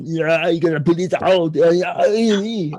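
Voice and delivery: loud, high straining yell; comic impression of an action hero howling as he pulls; Arnold Schwarzenegger. Action hero pulling a thing from his nose, straining impression. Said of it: "Remember that movie Total Recall with Arnold Schwarzenegger".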